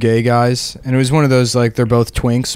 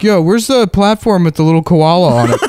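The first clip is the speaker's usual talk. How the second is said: imitating Adam, laughing; 5 semitones higher than usual. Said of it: "he's like".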